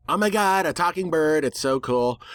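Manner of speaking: gushing, high and breathless on Oh my God; playing the starstruck fan; mock wonder that fades by the end; mock amazement. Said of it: "most people would be amazed".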